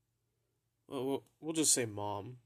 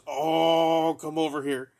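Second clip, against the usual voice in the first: louder, higher beckoning call; mom calling over; 4 semitones higher, 9 dB louder than usual. Retold or imitated. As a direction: call him over eagerly.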